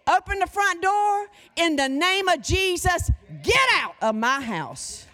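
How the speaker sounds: loud rebuke to a demon; commanding shout. Shown as a demonstration. Preacher rebuking a demon, commanding and loud. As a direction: order it out of the house.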